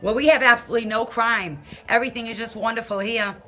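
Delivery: deadpan mock praise of the town; sarcastic. Woman mocking her crime-ridden hometown, dry sarcasm. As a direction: say it straight-faced, meaning the opposite.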